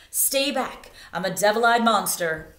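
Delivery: playful mock-menacing bird; mock scary bird threat. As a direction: bluff to scare the hawk. Sun bittern threatens hawk.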